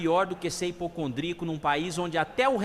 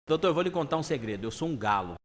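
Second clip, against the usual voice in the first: earnest confession, dropping low at the end; deadpan patient, pitch sinking at the end; dead serious; 3 semitones lower, faster than usual. Acted. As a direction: confide it gravely, completely straight. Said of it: "com toda seriedade".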